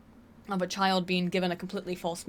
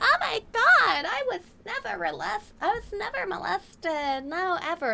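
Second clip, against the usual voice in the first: hammed-up high-pitched indignant protest; mock caller denial; 12 semitones higher, 4 dB louder than usual. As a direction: shriek the denial like a flustered caller. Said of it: "She'd be like".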